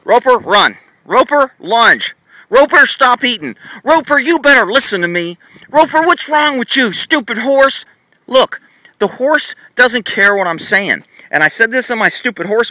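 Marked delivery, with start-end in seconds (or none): 0.0-7.9 higher, slow scolding commands; wrong cues. Shown as a demonstration. Trainer demonstrating wrong commands to ignored horse, mock scolding. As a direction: bark useless orders at the horse. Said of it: "I gotta do the wrong thing".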